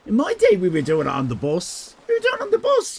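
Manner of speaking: put-on high, loud old-timer reminiscing; a lightly voiced nostalgic old geezer; hammed-up high "in my day" boast; mock old-timer. Mock old-timer recalling bus antics.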